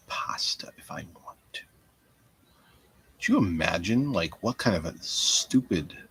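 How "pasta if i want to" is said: whispered to self; hushed musing. Real, not acted. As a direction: breathe it out quietly.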